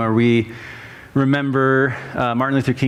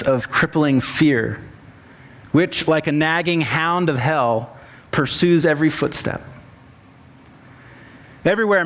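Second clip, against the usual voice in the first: measured, slightly raised preaching voice; sermon reading; 4 semitones higher than usual. Acted. Pastor preaching King's sermon to the congregation, measured pulpit delivery. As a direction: deliver it as a written sermon, phrase by phrase.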